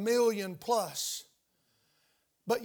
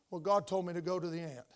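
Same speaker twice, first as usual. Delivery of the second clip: meek answer; 4 semitones lower, 6 dB quieter than usual. Acted. Ant watcher answers passerby meekly.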